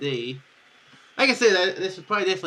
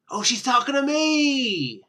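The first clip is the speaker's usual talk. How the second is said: much higher, slow, amazed; surprised delight; 10 semitones higher, 7 dB louder, slower than usual. Real, not acted. Player realising the heroine speaks to him, slow surprised cry.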